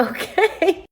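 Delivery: high squeaky okay; stunned okay. Retold or imitated. Telling friends about the massage request, high stunned okay. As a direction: go way up in disbelief. Hearing he wants a happy ending.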